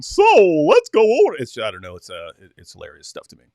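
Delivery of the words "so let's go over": loud, high French attempt at a redneck American accent; hammed-up French take on redneck American; French-accented mock redneck. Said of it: "a French guy going".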